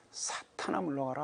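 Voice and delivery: usual speaking voice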